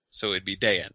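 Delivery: "Dayan" with the stress on the first vowel, Day-an; "Dayan", not a diphthong. Shown as a demonstration. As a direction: say "Dayan" as two syllables, Day-an. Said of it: "the stress is on the first syllable".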